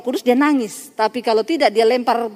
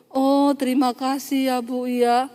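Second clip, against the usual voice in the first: soft, slow thank-you; imitated grateful thanks; 4 dB quieter, slower than usual. Relieved woman thanks the counselor, softly grateful. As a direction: draw it out gently.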